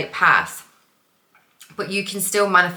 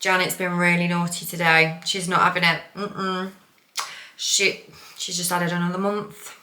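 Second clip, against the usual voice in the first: put-on Midlands accent; 4 dB quieter than usual. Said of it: "got this Midlands accent".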